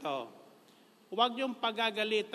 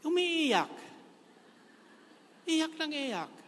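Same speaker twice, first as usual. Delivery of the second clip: mock sobbing voice, much higher; mock crying; 10 semitones higher, slower than usual. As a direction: imitate someone bawling, hammed up. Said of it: "mga bagong lapit sa akin".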